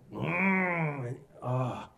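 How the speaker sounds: long acted growl, then ugh; exasperated groan. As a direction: groan in mock frustration. Acts out reaction to fever returning.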